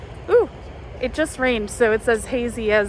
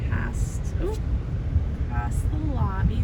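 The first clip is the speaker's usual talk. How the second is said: talking while the car bounces; on a bumpy road; 4 dB quieter than usual. Real, not acted. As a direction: voice jolted by bumps. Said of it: "Sorry, it's really bumpy in our car".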